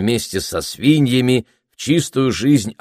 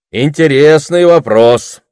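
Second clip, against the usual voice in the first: slow, high, loud orator voice; deliberate repeat; 7 semitones higher, 8 dB louder, slower than usual. A narrator's reading. Orator repeats the question to stall the crowd, slow and emphatic. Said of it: "повторил оратор и прибавил".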